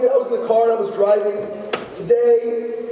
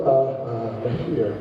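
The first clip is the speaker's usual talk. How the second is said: much lower, softer barber voice; low and baffled, pointing at himself; dumbfounded barber; 13 semitones lower, 4 dB quieter, slower than usual. Retold or imitated. Barber stunned by his customer, low and softer in disbelief.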